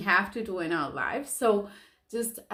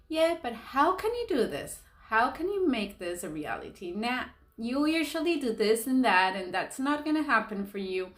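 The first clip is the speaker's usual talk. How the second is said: doubting inner voice; 3 semitones higher than usual. Retold or imitated. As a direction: play the little voice in your head that doubts you. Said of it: "It'll come and it'll question".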